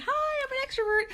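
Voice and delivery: very high, quick, chirpy squeal; hammed-up high-pitched extrovert hello; extroverted greeting. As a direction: play up a gushing extrovert saying hi. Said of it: "extrovertedness like I am".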